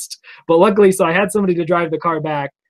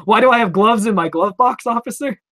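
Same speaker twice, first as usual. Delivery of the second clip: sarcastic retort; 5 semitones higher, 3 dB louder than usual. Pretend. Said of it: "I didn't say any of that".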